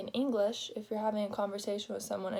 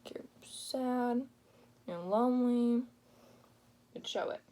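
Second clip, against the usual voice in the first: sad whisper; 3 semitones higher, 4 dB louder than usual. Shown as a demonstration. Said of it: "You wanna show that you're sad".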